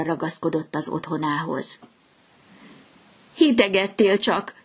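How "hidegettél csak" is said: calling out. A narrator's reading. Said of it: "kiáltotta a fecske".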